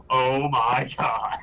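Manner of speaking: slow, drawn-out mock dismay; imitating exasperated girlfriend. Girlfriend learns of a second purchase, slow mock exasperation. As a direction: stretch it out in imitated disbelief. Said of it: "she looked at me like".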